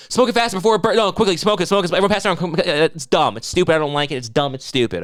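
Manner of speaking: hammed-up voice rushing the joint; mock pushy friend. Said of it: "and make".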